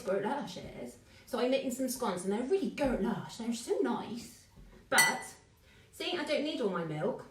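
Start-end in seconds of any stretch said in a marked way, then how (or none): 0.0-4.4 lightly put-on West Country accent; a hint of broad Bristolian. Shown as a demonstration. Former Bristol resident showing viewers the local talk, Bristol accent. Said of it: "we talk like this".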